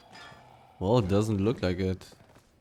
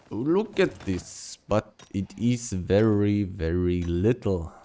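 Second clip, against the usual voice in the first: put-on Russian accent; 3 dB louder than usual. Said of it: "I like doing a Russian accent".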